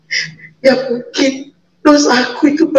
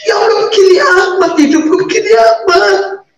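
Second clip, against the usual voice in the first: high, tearful cry to God; sobbing plea, voice breaking; crying prayer; 6 semitones higher than usual. Retold or imitated. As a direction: wail it out through tears. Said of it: "itu nangis".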